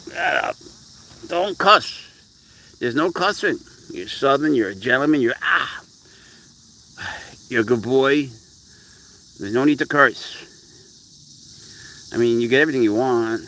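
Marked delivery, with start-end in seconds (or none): 0.1-10.4 mock scolding. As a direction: lecture the cat on manners, tongue in cheek. Mock-scolding cat for cussing.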